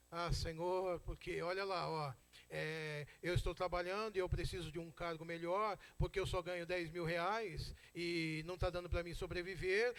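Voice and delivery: droning parody of a petition; mock prayer. Believer asking the Lord for a better job, mock praying. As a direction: imitate a self-serving prayer, running on evenly. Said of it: "a oração começou jóia".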